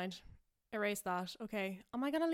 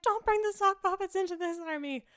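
high, much louder soap-opera shriek; hammed-up shriek; 8 semitones higher, 10 dB louder than usual. Wife yelling at husband over sock puppets, loud high shriek. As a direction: scream it like a melodrama wife. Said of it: "And she's like".

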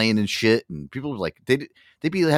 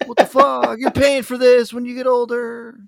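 mock furious; 6 dB louder than usual. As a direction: stretch out the indignant fury. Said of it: "He was so mad".

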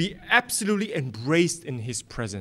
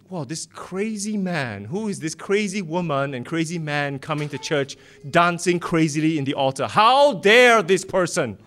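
mock scornful gossip. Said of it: "what people will say about us".

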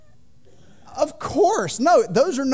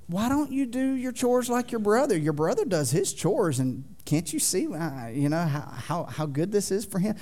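mock nagging comparison; 3 dB quieter than usual. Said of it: "We don't say that stuff".

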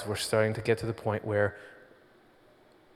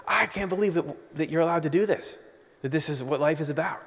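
surge of wonder; 5 semitones higher, faster than usual. Retold or imitated. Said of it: "There is this surge of like".

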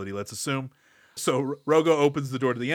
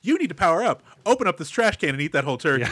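a touch of a chirpy game guide, laughing; mock game tutorial; 4 semitones higher, 3 dB louder, faster than usual. Game helper telling the player to eat a turkey, laughing through it. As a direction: rattle off hints like a game tutorial. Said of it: "the video game character that comes and explains".

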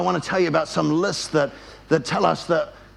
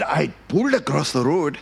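lower, put-on accented voice; guy from church; 4 semitones lower than usual. Churchgoer explaining to his pastor, put-on voice. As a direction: voice the other driver in a put-on accent. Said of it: "here's what he said".

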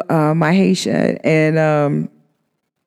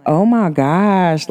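drawn-out amazement; much slower than usual. Retold or imitated. Dazzled reaction to his number.

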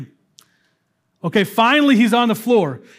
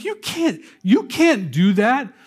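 mock indignant crowd; 3 semitones higher than usual. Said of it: "people get mad".

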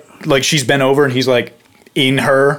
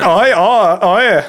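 put-on half-hearted girl voice; 6 semitones higher, slower than usual. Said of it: "That's the girl voice I was doing".

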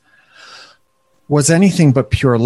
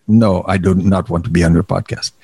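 low, put-on voice for the wife; low-voiced wife impression; 7 semitones lower than usual. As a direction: voice her refusal in a deep mock voice. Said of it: "she doesn't have a really low voice".

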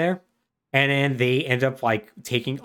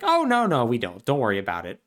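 polite butler robot. Retold or imitated. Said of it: "And Carltron's like".

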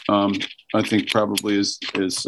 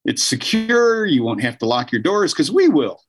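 welcome wagon greeter; 5 semitones higher than usual. Pretend. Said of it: "be the welcome wagon".

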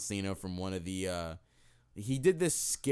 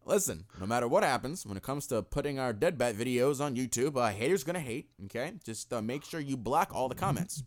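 Obama impression; 4 dB louder than usual. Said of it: "You sound like a white Barack".

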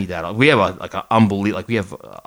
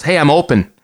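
raised, higher imitation of a player yelling; mock yell; 5 semitones higher, 5 dB louder than usual. Explaining hockey cherry picking to listeners, mock yell. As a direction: call out like an open player. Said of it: "just yells".

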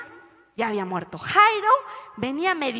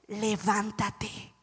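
slow command; 4 semitones lower, 9 dB quieter, much slower than usual. Acted. Preacher repeats Jesus' command.

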